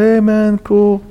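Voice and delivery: mock easygoing Jesus who judges no one; laid-back dude. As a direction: shrug it all off, nothing matters. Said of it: "walks around and goes".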